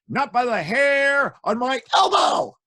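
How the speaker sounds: high, slow little pig squeak. Acted. Pig answering the wolf from inside.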